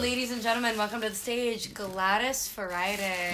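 grand stage announcer intro. Pretend. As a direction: announce her like a drag host. Announcing drag stage name.

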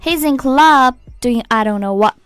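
"He's in" linked, "club" held long; linked lyric demo. Shown as a demonstration. Teacher shows the sung line, linked with long "club". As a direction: link the words and stretch "club". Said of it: "拖得比较长".

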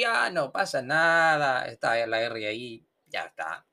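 mildly lazy, letting pitch and volume drop away; a bit lazy. Shown as a demonstration. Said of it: "tiene que volver un poco perezoso".

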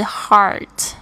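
heart with an open ah vowel as in car. Shown as a demonstration. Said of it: "这个R的声音跟car一样".

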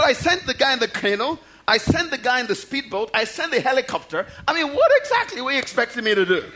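mildly exasperated, listing each point; a touch of mock disbelief; acted exasperated reply. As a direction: play God patiently at wit's end. The Lord answers the complaint.

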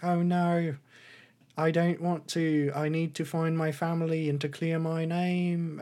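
lightly acted earnest refusal; lightly voiced Paddington. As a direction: plead mildly, pitched a bit up. Acts out Paddington's refusal to prisoners.

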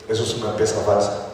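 low, soft voice of God correcting; God's quiet verdict. Retold or imitated. God answers the preacher's wish about footballers, quiet and low.

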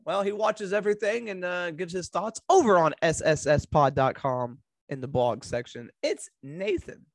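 upbeat host announcing the show; podcast intro voice. Acted.

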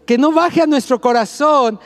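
rising, building sermon cry; full-force preaching. Acted.

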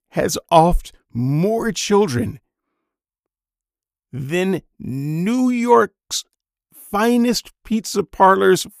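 high, loud, building outrage; heated rant. Real, not acted. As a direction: rise into an incredulous rant, stretching the key words. Ranting about biblical child deaths.

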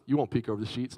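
low, soft tempter's voice; understated sly temptation; retold quiet taunt. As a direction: dare him softly, pitched low. Devil tempting him, retold.

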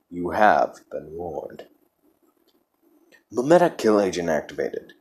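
ominous computer announcement voice; cold, eerie system warning; spooky ride narrator. Acted. Ominous classified file intro.

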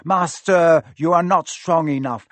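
loud, urgent protest; pleading Quirrell. Acted. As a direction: warn your master anxiously.

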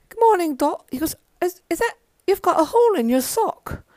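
lightly voiced Charlie, amused at the sock; imitating Charlie.

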